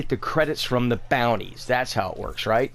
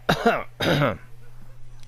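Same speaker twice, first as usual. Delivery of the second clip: fake coughing fit. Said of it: "I'm choking on these".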